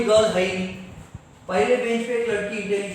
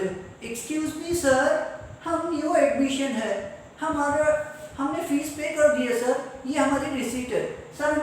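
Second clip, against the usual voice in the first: put-on new girl student; 4 semitones higher than usual. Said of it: "बोले".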